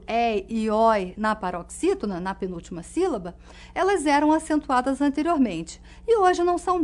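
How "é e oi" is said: "é" and "oi" slowly, as open gliding vowels; open diphthong sounds. Shown as a demonstration. Teacher naming open diphthongs, slow clear demonstration. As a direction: sound out "é" and "oi" one by one, stretched. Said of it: "que continham ditongo aberto".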